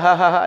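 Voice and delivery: mock open-mouthed "ha-ha" weeping; put-on bawling noise; imitated crying. Shown as a demonstration. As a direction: demonstrate another style of crying. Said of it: "cara nangis berbeda-beda".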